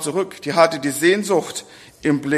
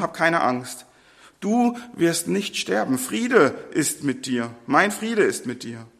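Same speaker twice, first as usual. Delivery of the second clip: softer, calm comfort; reassuring Lord; 4 dB quieter than usual. Acted. The Lord calms frightened Gideon, soft and reassuring. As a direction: soothe him gently.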